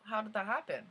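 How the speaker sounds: mildly exasperated confusion, acted out; confused disbelief. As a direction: re-enact baffled disbelief. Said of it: "so confused".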